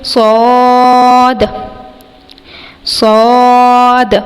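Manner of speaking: صاد full-mouthed and heavy, with a hiss; heavy whistling letter demo. Shown as a demonstration. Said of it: "اس کو ہم موٹا ادا کریں گے". (صاد موٹا اور سیٹی کے ساتھ)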